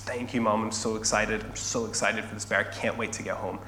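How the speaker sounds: soft, hushed thanks to mom; grateful child. Acted. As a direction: play a grateful girl, excitement kept under the breath. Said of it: "She is showing her gratitude".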